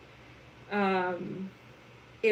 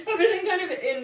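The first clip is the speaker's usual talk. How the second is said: laughing; 11 semitones higher than usual. Real, not acted. Laughs mid-sentence.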